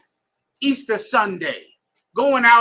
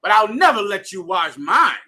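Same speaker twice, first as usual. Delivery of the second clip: Peter refusing; 3 semitones higher, 6 dB louder than usual. Retold or imitated. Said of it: "Peter said".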